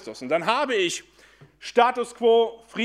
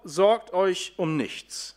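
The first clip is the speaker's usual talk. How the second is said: casual quote; much slower than usual. Retold or imitated. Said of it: "Paulus sagt ganz salopp".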